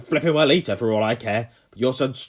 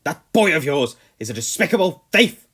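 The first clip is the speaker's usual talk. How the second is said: loud, high furious rant; 7 semitones higher, 12 dB louder than usual. A narrator's reading. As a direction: rant at the boy, fist shaking. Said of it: "the Colonel ranted on".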